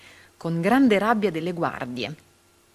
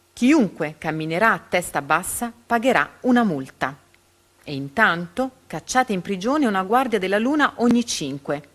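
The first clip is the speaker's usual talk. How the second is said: angry tyrant orders; 4 dB louder than usual. Acted. Tyrant yells orders, beating Man.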